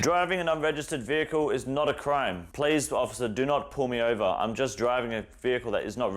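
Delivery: high mocking whine of a self-righteous driver; mock whiny driver. YouTuber mocking the driver's excuse to the officer, in a high mock whine.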